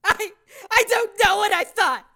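miserable. Acted. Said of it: "she said miserably".

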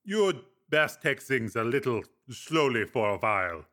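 lightly voiced Breck, easy advice; a hint of a wry older friend; Breck, calm friend. Breck advising.

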